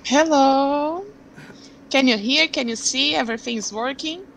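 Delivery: ordinary talk, nothing marked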